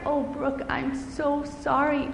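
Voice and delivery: soft, slow, gentle sorry; tender apology. Acted. Dad hugging Brooke, soft tender apology. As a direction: comfort her softly. Dad hugs crying daughter.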